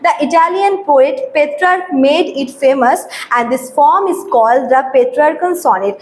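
slow, deliberate English reading, word by word; slow dictation reading. Shown as a demonstration. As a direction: read the definition out slowly for students to copy. Teacher slowly reads English definition.

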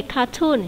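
"cartoon" stressed on the second syllable; tag second-syllable stress. Shown as a demonstration. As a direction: put the stress on the "toon" of "cartoon". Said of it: "nhấn âm số hai".

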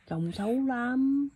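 gentle, lingering reproach; drawn-out chiding. Real, not acted. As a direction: stretch it out in a singsong warning. Mother repeats chiding, drawn out.

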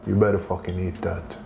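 lightly voiced tough guy. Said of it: "han bara".

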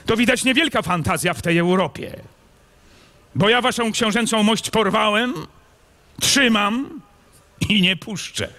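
high, brash and defiant; defiant young noble. A narrator's reading. Kmicic defying the captured prince, high and brash. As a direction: throw it back at him proudly.

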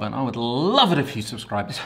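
breathless, straining through the line; out of breath. Real, not acted. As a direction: gasp the words out. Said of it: "I'm out of breath".

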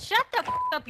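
yelling insult. Real, not acted. Heated trash talk.

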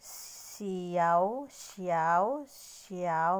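"Xiao" said three times, each lifting at the end; repeating xiao. Shown as a demonstration. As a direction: drill "xiao" with a rising tune. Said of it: "ulitin natin".

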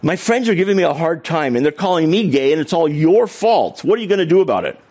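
a hint of an angry Texan boater; angry accusation. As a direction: imitate the furious neighbour lightly. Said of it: "he started in".

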